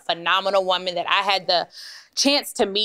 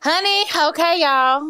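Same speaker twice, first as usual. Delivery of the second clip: much higher and louder, squealing with glee; excited squeal; 9 semitones higher, 5 dB louder, much slower than usual. Real, not acted. Host kicking off the episode, squealing with excitement. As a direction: burst out with giddy delight. Host bursts into podcast intro.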